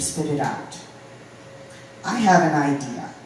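measured spoken-word delivery with punched openings; poem recitation. Acted. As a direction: recite as a string of exasperated pleas, pausing between each.

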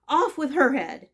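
furious royal shout; queen shouting. A narrator's reading. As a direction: bark it like a raging queen. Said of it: "went stamping about and shouting".

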